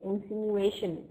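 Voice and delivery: INSINUATION slowly, in-sin-yoo-AY-shun; careful pronunciation. Shown as a demonstration. Teacher asking if it is correct, INSINUATION said slowly. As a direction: sound out "Insinuation" at a slow pace. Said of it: "Is this the correct pronunciation?".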